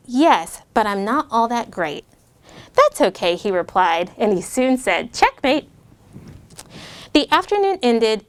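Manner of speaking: lightly voiced read-aloud to kids; a gentle rhyming storytime read; story narration. A narrator's reading. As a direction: read it like a picture book. Reads rhyming story to children.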